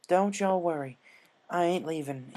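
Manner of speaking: steady, lightly voiced farm pony; lightly voiced Applejack. Applejack reassures friends.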